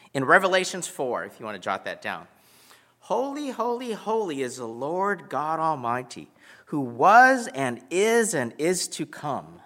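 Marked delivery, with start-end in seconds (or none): 3.0-9.6 worshipful recitation. Acted. Quoting scripture in worship.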